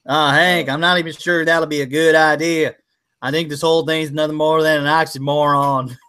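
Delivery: a lightly voiced fussy neighbor; nervous know-it-all neighbor; Dale voice. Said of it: "Shut up, Dale".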